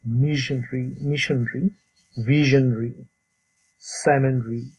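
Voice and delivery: "মিশনারি", "ভিশনারি", "সেমিনারি" ending in a short "-nri"; same reduced ending. Shown as a demonstration. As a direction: model "মিশনারি" as MISH-n-ri, likewise the others. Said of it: "অনেকটা এরকম".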